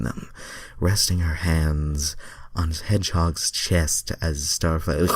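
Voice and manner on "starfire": words catching in the throat; choking on words. Real, not acted. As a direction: cough breaking the word. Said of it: "I'm choking on my words here".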